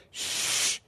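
whispered soft shush; calming hush. Retold or imitated. Jesus calming the storm, a soft whispered shush. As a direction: hush the storm with one breath. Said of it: "he looks around at the storm and he goes".

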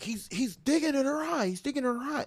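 high, far-off helpless whine; lightly voiced grandfather; mock granddad. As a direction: point it out without doing anything. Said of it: "he's like".

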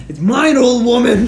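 mock gloat. Imagined rude reply to lady.

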